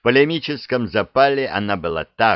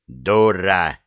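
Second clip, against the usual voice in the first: louder offended outburst; 4 dB louder than usual. Acted. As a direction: snap it, deeply insulted. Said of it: "обиделся дракон". (обиженно)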